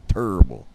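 TERRIBLE with a rounded "tur" start. Shown as a demonstration. Repeating the slang spelling for friends, TERRIBLE as "turrible". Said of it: "U instead of the E".

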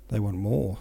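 lightly voiced hoarse remark, near narration level; Napoleon, lightly hoarse. Napoleon answers the adjutant's report, lightly hoarse. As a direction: say it with just a hint of hoarseness. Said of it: "said Napoleon in a hoarse voice".

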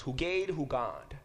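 "Hugad, Hugad" said slowly as HOO-gad, HOO-gad, rising at the end; slow repeat. Shown as a demonstration. Teacher slowly repeating "Hugad" as HOO-gad so the class hears the repetition. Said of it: "you can hear the same reference".

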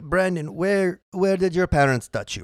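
weak German therapist voice; a failed Freud impression in German; German accent. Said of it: "That's my German accent".

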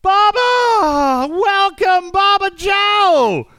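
high, loud, stretched welcome; excited shout. Real, not acted. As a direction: cheer his name like a game show host. Surprise arrival of a friend.

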